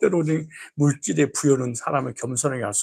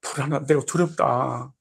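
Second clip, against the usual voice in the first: worried God. Retold or imitated. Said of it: "이렇게 하나님 그런 거야".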